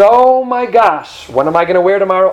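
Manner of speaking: mock panic over tomorrow; fretting that there's nothing to wear tomorrow; panicky worrier. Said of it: "and says".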